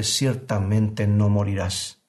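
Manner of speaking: slow, coaxing mock serpent; serpent's voice. Preacher echoing the serpent's lie to his listeners, slow and coaxing. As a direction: draw the lie out smoothly, a hint of the tempter. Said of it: "eco de la voz de la serpiente".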